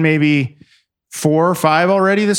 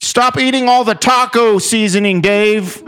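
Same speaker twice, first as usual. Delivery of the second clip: scolding parent; 6 semitones higher than usual. Retold or imitated.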